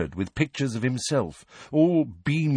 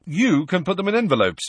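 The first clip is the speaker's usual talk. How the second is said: higher-pitched, self-important patient; airy Lockhart; 9 semitones higher, 4 dB louder than usual. A narrator's reading. Lockhart giving Ginny his photos to post, airy. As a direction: hand out the job grandly, pitched up.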